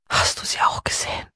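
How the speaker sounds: frightened whisper, breath only. A narrator's reading. Hannah whispers to Peter about the figures, hushed whisper. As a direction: whisper it as if the figures could hear. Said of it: "flüsterte sie".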